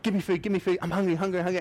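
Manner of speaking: high-pitched, rapid-fire pleading; yapping dog. Acted. Neighbour's dog begging for food, high insistent yapping. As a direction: pester in a high, yappy dog voice. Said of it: "he's like this annoying yapping dog".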